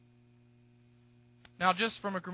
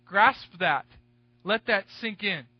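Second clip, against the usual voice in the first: emphatic command; 6 dB louder, slower than usual. Real, not acted. Preacher urging the congregation.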